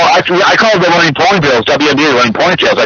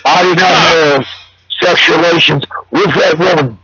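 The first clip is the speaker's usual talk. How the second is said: impression. Clinton impression quote.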